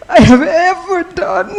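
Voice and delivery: high, slow, voice cracking with grief; words squeezed out through tears; real grief breaking the voice. Real, not acted. Grieving speaker at funeral.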